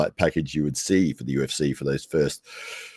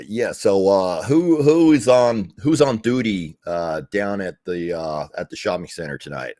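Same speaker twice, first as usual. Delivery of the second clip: mock Canadian boss; 3 semitones higher, 5 dB louder than usual. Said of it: "Canadian boss, and he would say".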